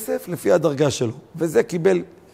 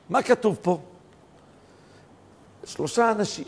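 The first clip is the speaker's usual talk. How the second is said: ordinary talk, nothing marked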